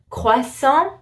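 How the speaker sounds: croissant in French, no T at the end; silent final T. Shown as a demonstration. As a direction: say croissant with the T dropped. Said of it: "You don't pronounce the T".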